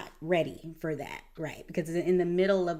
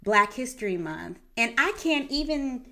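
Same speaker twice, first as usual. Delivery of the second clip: rising frustration that bursts loud at the end; overwhelmed listener, venting louder and louder; exasperated plea; 2 semitones higher, 6 dB louder than usual. Retold or imitated. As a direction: build from tired complaint to a loud outburst.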